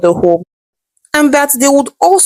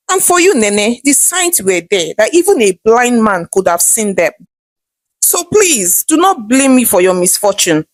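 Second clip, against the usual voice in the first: lightly sarcastic mother-in-law brushing off blame. Acted. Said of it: "responded sarcastically".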